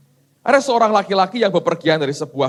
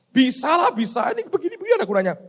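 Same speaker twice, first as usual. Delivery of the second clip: God reassuring; 10 semitones higher, faster than usual. Acted. God reconsiders.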